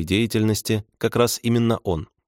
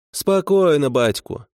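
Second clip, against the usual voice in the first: much higher, drawn-out "calm down"; soothing sergeant; 8 semitones higher, 3 dB louder, slower than usual. A narrator's reading. Sergeant calms the agitated man, soothingly. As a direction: settle an agitated man with a falling call. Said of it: "успокоил его сержант".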